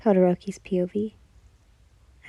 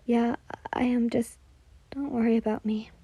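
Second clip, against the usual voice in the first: stuttering; 4 semitones higher, 4 dB quieter than usual. Acted. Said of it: "you stuttered".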